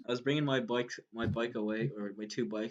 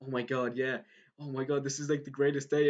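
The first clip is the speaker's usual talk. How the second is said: imitating happy fan; 3 semitones higher than usual. Cyclist overjoyed at meeting a fan, imitated delight. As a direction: retell a stranger's joy, lifting toward the end. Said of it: "he looked so happy and he was like".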